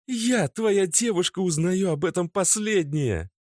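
high, sharp, accusing; girlfriend's angry outburst. A narrator's reading. Natasha furiously accuses her boyfriend Oleg. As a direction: lash out at him.

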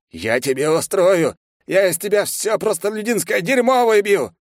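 high, loud raging threats; struggling guard shouting at the knight; furious ranting. A narrator's reading. Old man held back, raging. (в ярости, кричит)

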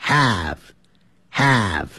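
"Have" with an eh vowel, like heh; wrong have vowel. Shown as a demonstration. 老师重复示范错误读音. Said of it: "所以不要念成have".

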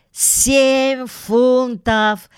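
high, drawn-out excited bid; frantic cry. A narrator's reading. Paddington bids against his rival at auction, high frantic cry. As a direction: cry out the bid, stretching each word high. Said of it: "вне себя закричал Паддингтон".

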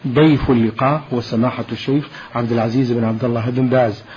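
formal radio announcer read; measured, formal program introduction; formal standard arabic. Acted.

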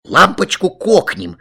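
high, loud gleeful cry; excited kids' shout; children shouting. A narrator's reading. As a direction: yell it like mischievous brothers. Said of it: "закричали братья".

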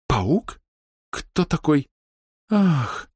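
a sharp high startled question; startled gasp. A narrator's reading. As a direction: catch your breath at the name. Miss Hest startled by news. (испуганно-удивлённо, с резким вскриком)

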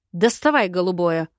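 mildly barked command; a touch of a bark; barked order. Acted. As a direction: give a firm, cross order. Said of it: "гаркнула я".

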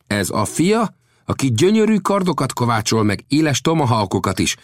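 animated, high-pitched introduction; Old Death boasting. Acted. Old Death presents the smith's son, boasting.

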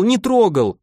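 high sobbing repeat, stress on не. Acted. Tearful insistence, punching не in не трогал. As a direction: Marfusha repeats her denial to Kuzma, sobbing. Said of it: "всхлипнула Марфуша".

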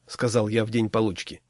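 plain reading voice

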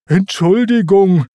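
apologetic exclamation, falling at the end; Pumba apologizing. A narrator's reading. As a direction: blurt a clumsy sorry. Clumsy Pumba apologizes after landing.

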